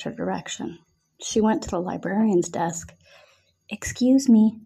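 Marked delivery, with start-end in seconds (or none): 3.7-4.6 whispered politely; hushed, barely voiced; soft whisper. A narrator's reading. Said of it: "she said softly".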